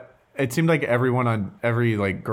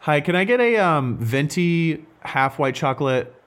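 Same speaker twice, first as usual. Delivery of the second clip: pleasant drive-thru ordering voice; 3 semitones higher than usual. Pretend. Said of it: "I have a great drive-through voice".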